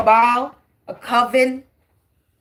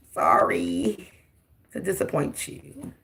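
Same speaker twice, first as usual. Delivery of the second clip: mock whisper; 8 semitones lower, 8 dB quieter, slower than usual. Real, not acted. Taunting critics, sudden whisper.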